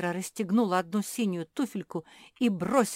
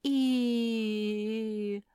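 stone's groan; 4 semitones higher than usual. A narrator's reading. Stone utters a sound.

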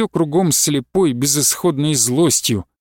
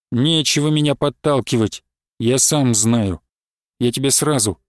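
plain reading voice

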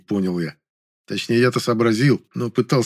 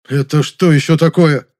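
higher, louder outraged question; indignant outburst; 5 semitones higher, 7 dB louder than usual. Acted. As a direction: demand an answer angrily. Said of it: "возмутился он".

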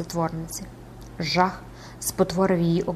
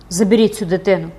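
mildly raised urgent exclamation; crying out; 4 dB louder than usual. Acted. Recluse ordering the child away, crying out. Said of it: "вигукнула вона".

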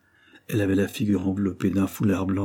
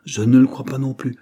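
higher, louder quick rejoinder; brisk, lively; 5 semitones higher, 7 dB louder than usual. A narrator's reading. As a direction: say it with lively force, raised pitch. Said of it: "dit vivement monsieur Dare".

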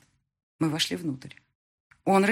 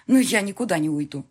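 но я никуда не уйду said loud to his face; defiant wife on the phone; 2 semitones higher, 5 dB louder than usual. Acted. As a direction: throw но я никуда не уйду at him. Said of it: "я хочу быть рядом".

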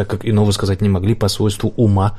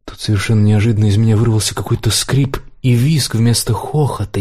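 plain reading voice

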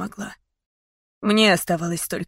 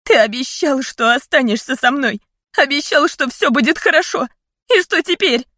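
loud, high, hurt reproach; tearful accusation; 7 semitones higher, 5 dB louder than usual. A narrator's reading. Daughter crying out at her dying father. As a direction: throw his broken promise back at him.

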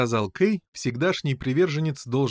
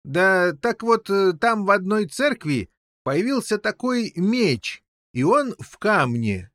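high, halting, drawn-out explanation; muddled old king, excited; 7 semitones higher, 3 dB louder than usual. A narrator's reading. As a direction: fumble through it in a high character voice. (путаное объяснение взволнованного короля)

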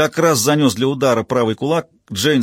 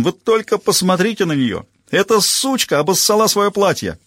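mocking jeer; 8 semitones higher than usual. A narrator's reading. Rollo mocking Jane, laughing.

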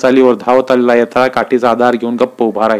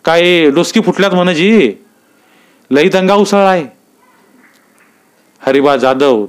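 higher, urgent rustic voices; breathless report; 3 semitones higher than usual. Acted. Yetala tells Naik of the fight, urgent higher voice. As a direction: blurt the news out.

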